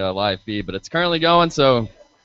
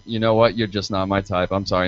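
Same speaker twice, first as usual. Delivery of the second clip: dismissive brush-off; 4 semitones lower than usual. Retold or imitated. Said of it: "be like".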